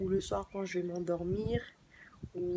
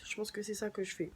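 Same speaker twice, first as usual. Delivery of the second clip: whisper; 5 dB quieter, faster than usual. Real, not acted. Whispered aside.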